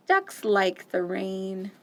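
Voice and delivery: slow reassuring mama; calm. Acted. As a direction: say it slowly and kindly.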